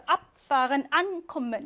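앞 and 안 punched; strong prefix stress. Shown as a demonstration. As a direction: lean hard on the prefixes 앞 and 안. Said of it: "이렇게 강하게 하고요".

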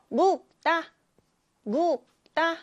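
묵다 read clearly as muk-tta; pronunciation demo. Shown as a demonstration. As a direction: sound out 묵다 for the class. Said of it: "묵다 이렇게 읽습니다".

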